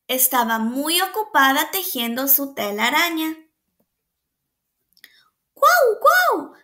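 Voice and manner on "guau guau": high, yappy bark; dog bark. A narrator's reading. Teacher reading aloud, high puppy bark. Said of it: "ladró el perro".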